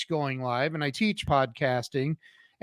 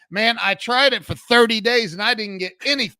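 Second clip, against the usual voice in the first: whiny client; 5 semitones higher, 3 dB louder than usual. Retold or imitated. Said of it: "they're like".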